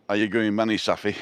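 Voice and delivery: broad Bury accent, attempted. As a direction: have a go at broad northern Bury speech. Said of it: "I can't even do a Bury accent".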